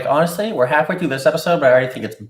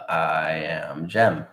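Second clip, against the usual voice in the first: slow; 8 semitones lower, 5 dB quieter, much slower than usual. Pretend. Mock-literal translation.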